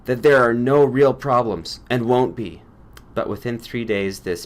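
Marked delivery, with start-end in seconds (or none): 0.0-2.6 a light curt snap, a bit louder; snapped. A narrator's reading. Granger shuts down Max's worry, a light curt snap. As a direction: cut the discussion off short. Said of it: "Granger snapped".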